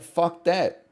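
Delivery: ordinary talk, nothing marked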